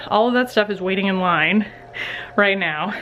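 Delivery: slightly winded from lugging laundry; out of breath. Real, not acted. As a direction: speak with little breath left. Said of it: "out of breath because I was just".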